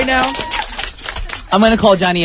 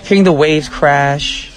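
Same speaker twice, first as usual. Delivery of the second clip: sensual. Real, not acted. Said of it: "your voice get so sensual".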